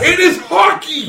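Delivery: mock British accent, slow and emphatic. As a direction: say it like a Brit, hammed up. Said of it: "I like how you said that with a British accent".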